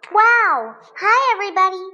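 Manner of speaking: high, loud, delighted hello; smiling greeting. A narrator's reading. Teddy B meeting toys in the waiting room, smiling. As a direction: greet them all big and high, with a smile. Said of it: "says with a smile".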